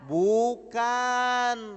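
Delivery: a firm shouted no; emphatic answer. Real, not acted. Preacher answering the congregation, shouting firmly. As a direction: slam the answer down.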